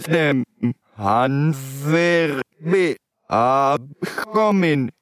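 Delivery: reading text backwards word by word; slow halting backwards reading; backwards speech. Shown as a demonstration. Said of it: "du liest ihn rückwärts".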